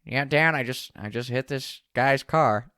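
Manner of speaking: lightly imitating a raspy, nasal buddy; slow sheepish voice for the friend. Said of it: "a little bit of a raspy, nasally voice".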